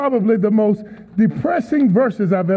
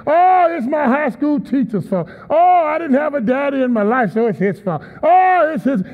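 whining blamer. Retold or imitated. Preacher mimicking people who blame others, mock whine. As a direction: play a victim blaming everyone. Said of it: "they love to blame other people".

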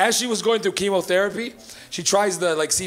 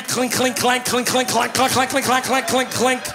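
noisy door sound; 5 semitones higher, slower than usual. Retold or imitated. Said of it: "loudest fucking door in the history of doors".

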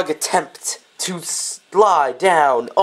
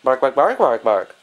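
dog bark; 4 semitones lower than usual. Pretend. Voices the dog answering.

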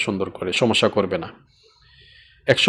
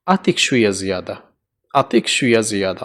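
gently asking for a little more, lower and softer; soft polite request; 5 semitones lower, 3 dB quieter than usual. Shown as a demonstration. Worker gently asks the Saudi boss for a little more, softly. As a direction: coax him softly for a bit more. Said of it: "একটু বাড়িয়ে দাও".

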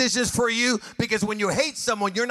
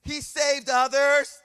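mocking crowd; 5 semitones higher, slower than usual. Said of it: "Look what they said".

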